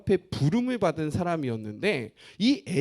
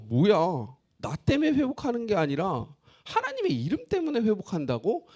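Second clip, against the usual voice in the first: miffed listener; 3 semitones higher than usual. Retold or imitated. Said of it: "기분이 살짝 안 좋을 수 있습니다".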